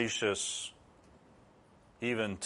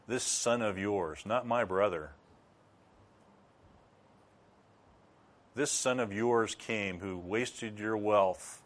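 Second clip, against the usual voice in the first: contemptuous; 5 dB quieter than usual. Acted. Bitter older son sneering to his father about his brother. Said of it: "just listen to the contempt in that".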